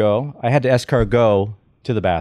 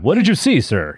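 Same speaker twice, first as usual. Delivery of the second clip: mock crime-scene interviewer, pitched up then dropping on "sir"; street reporter. Guest mocks his own voice as a street interviewer, mock reporter. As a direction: put on a TV reporter's questioning voice. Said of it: "I'm interviewing people on the street".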